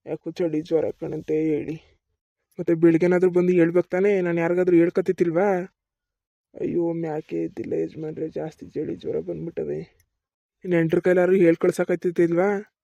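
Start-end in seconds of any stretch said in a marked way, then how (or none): 2.6-5.8 loud, fast rebuke of a worker; angry scolding. Acted. Landlord scolds his sick farmhand, loud and fast. 10.6-12.8 loud reproach; angry scolding. Acted. Landlord keeps scolding the worker, loud.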